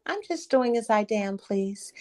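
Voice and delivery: put-on mildly casual kid's comeback. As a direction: toss it off like it's nothing. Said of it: "And I said casually".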